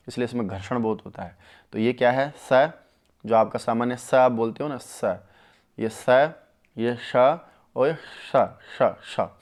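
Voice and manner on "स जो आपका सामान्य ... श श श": स, श and श sounded out one by one for the class; sibilant demo. Shown as a demonstration. Teacher to students, demonstrating each sibilant sound. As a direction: hiss each sibilant apart, the tongue moving back. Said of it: "इस प्रकार से इनका उच्चारण होता है".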